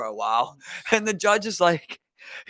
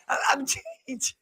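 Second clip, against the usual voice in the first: mock pleading kid; 9 semitones higher, 3 dB quieter, slower than usual. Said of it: "He's like".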